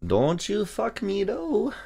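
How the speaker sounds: high, soft, slow mock Asian accent. Trader warning the chart in the Asia session, mock Asian accent. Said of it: "do it in an Asia accent".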